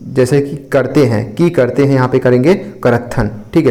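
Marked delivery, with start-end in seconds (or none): 2.5-3.3 "करत्थन" as one word with aspirated tth; Chhattisgarhi merged form. Shown as a demonstration. Teacher shows two words fused, "करत्थन" with breathy aspirated th. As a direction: say "करत्थन" merged, karat-than. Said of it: "मिश्रित कर महाप्राणीकरण की प्रवृत्ति".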